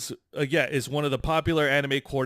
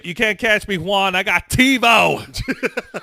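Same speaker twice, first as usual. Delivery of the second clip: McConaughey impression; 7 semitones higher, 9 dB louder than usual. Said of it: "That's Matthew McConaughey".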